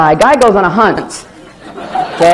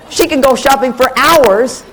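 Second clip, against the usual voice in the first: higher, slower, laughing through it; 8 semitones higher, slower than usual. Real, not acted. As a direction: laugh at how she shops. Laughing about wife shopping.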